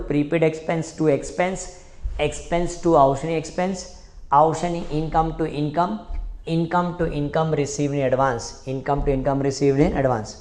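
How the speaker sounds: slow, evenly chanted entries; slow chanted memory drill; slow recitation drill. Shown as a demonstration. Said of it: "चारों entry एक साथ में बोलने का".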